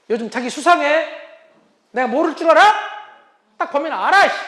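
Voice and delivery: suspicious wife. Retold or imitated. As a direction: call him out like a sharp-eyed wife. Wife confronts suspicious husband. (의심하는 아내의 추궁하는 목소리)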